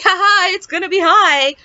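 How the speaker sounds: high, loud mock laugh into the words; nervous joking. Retold nervous joke to the nurse.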